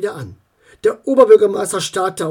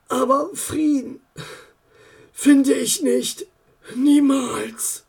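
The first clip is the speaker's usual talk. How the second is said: bitter resolve; 6 semitones higher, slower than usual. Acted. Bitter mayor alone.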